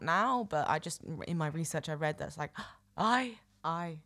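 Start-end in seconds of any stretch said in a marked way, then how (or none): 3.0-4.0 "I" on an indrawn breath; inhaled affirmative. Shown as a demonstration. Co-host demonstrates the Irish affirmative, on an inhalation. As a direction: gasp in, sounding an "aye". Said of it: "make noise on an inhalation".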